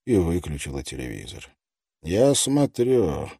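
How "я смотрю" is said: put-on slow, muffled lisping old man. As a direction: lisp it out slowly without teeth. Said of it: "глухим, шепелявым голосом".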